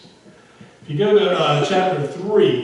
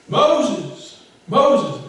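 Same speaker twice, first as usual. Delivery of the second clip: Moses shouted high and loud; loud divine call; 6 semitones higher, 7 dB louder than usual. Acted. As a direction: call out Moses, booming from the bush. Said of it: "I say that loud because".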